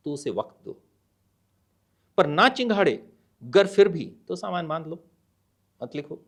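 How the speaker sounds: measured poem reading with pauses; poem recitation. Acted. (कविता पाठ, ठहर-ठहर कर)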